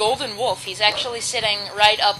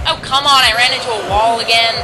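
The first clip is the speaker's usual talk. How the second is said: frustrated; 2 semitones higher, 9 dB louder than usual. Real, not acted. Frustrated at game wall.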